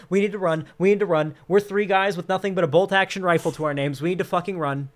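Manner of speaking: mock panic, loud and high at first; panicked hunter. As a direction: act out hunters fleeing in alarm. Hunters panic at charging hogs.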